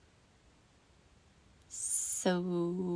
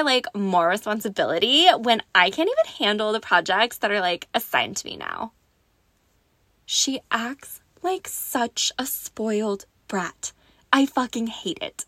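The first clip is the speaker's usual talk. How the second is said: put-on Valley Girl voice; 5 dB louder than usual. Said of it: "my Valley Girl voice".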